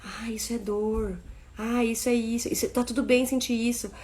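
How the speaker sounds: a hint of calm acceptance; soft reassuring. Shown as a demonstration. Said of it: "ela pode expressar". (criança nomeando a dor, com voz baixa e calma)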